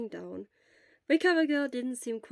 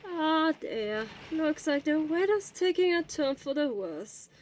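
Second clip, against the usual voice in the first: lightly voiced elderly nurse; 7 semitones higher than usual. Elderly school nurse gently questions a feverish boy.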